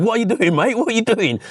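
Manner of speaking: half-joking challenge with a firm edge; light tone, but let him know you mean it; playful but serious. Retold or imitated. To a man rummaging in his car, playful but firm. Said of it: "I said it in a bit of a playful tone, but in quite a serious tone".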